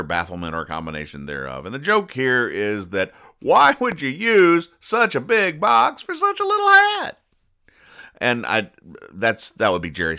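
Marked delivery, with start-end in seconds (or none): 3.4-7.2 mock incredulous. Real, not acted. Mocking the oversized hat box.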